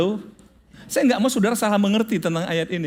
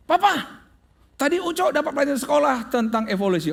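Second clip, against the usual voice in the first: put-on eager child; 4 semitones higher than usual. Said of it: "boy running to his father".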